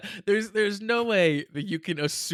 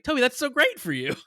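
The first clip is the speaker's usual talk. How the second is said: high, loud, enthusiastic praise; sincerely thrilled; 10 semitones higher, 5 dB louder than usual. Shown as a demonstration. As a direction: gush as if truly happy for a friend. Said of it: "But really, I could be like".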